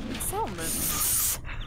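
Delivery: slow "salmon" with a sounded L. Real, not acted. Standing by their own way of saying salmon, slowly, L sounded. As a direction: stretch out "salmon", keeping the L in. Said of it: "Why is there an L there?".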